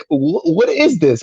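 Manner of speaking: drawn-out, high-pitched bewilderment; baffled. Retold or imitated. Viewer retells reaction to a bizarre video, baffled. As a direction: stammer it out slowly, pitched high in disbelief.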